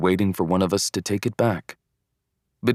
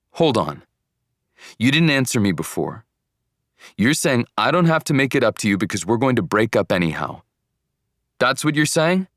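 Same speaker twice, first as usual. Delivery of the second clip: demanding; 4 semitones higher, 3 dB louder than usual. Acted. Boyfriend pressing for an answer.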